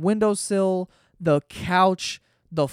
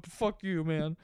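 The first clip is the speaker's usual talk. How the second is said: softer, low grumbled curse under the breath; muttered dog curse; 3 semitones lower, 9 dB quieter, slower than usual. Retold or imitated. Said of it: "curse me out under his breath".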